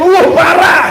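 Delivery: high, punchy cry of dismay; exaggerated disapproval. People reacting to someone the Prophet called stingy, exaggerated dismay. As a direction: exclaim it high, as if appalled. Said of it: "Sampai Nabi bilang dia pelit".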